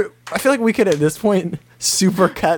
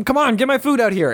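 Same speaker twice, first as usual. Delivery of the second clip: higher-pitched retold yell at a restaurant owner; mock yell; 7 semitones higher than usual. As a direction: imitate an impatient customer yelling, without real volume. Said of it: "he yells at the Aya owner".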